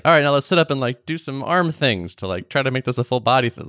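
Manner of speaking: mock upbeat spin instructor; hammed-up fitness coach cheer; peppy instructor.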